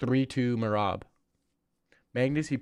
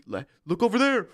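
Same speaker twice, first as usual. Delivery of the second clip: high, put-on voice; pretend trick; 9 semitones higher than usual. Streamer acting out a sneak-attack distraction in a high put-on voice. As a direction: sell the fake distraction. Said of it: "I'd probably say".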